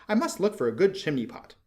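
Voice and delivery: a small bird fed up with the rain; annoyed swallow. A narrator's reading. Swallow voiced in story.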